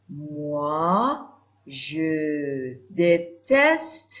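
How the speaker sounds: very slow, drawn out phrase; slow example. Shown as a demonstration. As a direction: stretch it for learners. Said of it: "slow example sentence".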